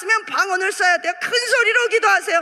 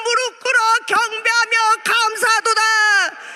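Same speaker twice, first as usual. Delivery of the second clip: exultant proclamation; 2 semitones higher than usual. Acted. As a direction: proclaim it like heaven's worshippers. Proclaims heavenly worship.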